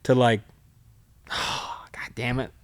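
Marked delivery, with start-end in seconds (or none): 0.9-2.5 hushed, breathless whisper of dismay; a whispered oh God damn it, sinking in; whispered curse. Retold or imitated. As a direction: mutter it under your breath, voiceless. Retold realization, inner voice.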